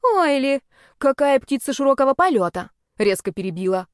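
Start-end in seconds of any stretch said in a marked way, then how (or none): 0.0-2.7 sarcastic mockery. A narrator's reading. Sarcastic interruption of boast.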